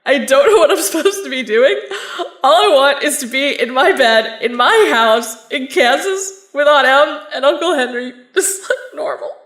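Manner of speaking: teary, half-laughing rant; a tearful laugh while pouring it all out; laughing through tears. Acted. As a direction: cry and laugh at once, overwhelmed. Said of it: "I'm crying".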